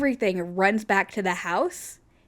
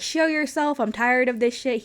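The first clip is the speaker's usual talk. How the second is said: retold shout; 4 semitones higher than usual. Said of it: "he's out there screaming".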